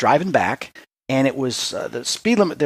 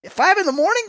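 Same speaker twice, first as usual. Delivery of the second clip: mock disbelief; 3 dB louder than usual. Retold incredulous question.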